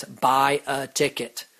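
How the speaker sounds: slow, mild deadpan reply; divine voice. Retold or imitated. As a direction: answer like God with a dry hint. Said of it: "you hear a voice that says".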